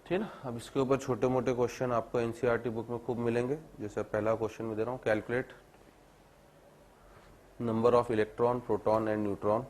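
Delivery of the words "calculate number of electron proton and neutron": teacher reading a question aloud for students to copy, slowly; slow dictation. Shown as a demonstration. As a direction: question read out word by word, drawn out.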